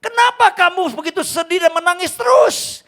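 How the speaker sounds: put-on loud, high, booming voice of God speaking to his child. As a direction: thunder it out as God gently rebuking his son. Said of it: "Tuhan ngomong sama saya".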